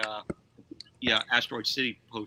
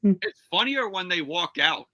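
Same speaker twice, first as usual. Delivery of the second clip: laughing; 5 semitones higher, slower than usual. Real, not acted. Laughing through words.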